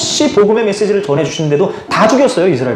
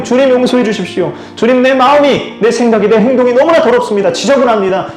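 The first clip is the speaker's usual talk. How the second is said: desperate prayer; 4 semitones higher than usual. Retold or imitated. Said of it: "하고 회개를 염치 없지만 구하는데".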